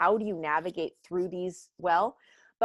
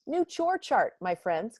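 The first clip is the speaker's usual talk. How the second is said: much higher, chirpy announcing mom; upbeat mom; 4 semitones higher than usual. Retold or imitated. Mom announcing a new chore chart to her kids, chirpy. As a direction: sell the chore chart brightly. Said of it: "I say".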